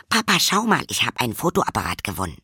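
put-on excited child. Lilly excited to show camera.

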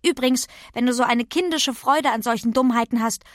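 leicht gespielte, empörte Kinderstimme; vorlaute Pippi. Acted. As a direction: weise die Lehrerin frech zurecht. (vorlaute Pippi-Stimme)

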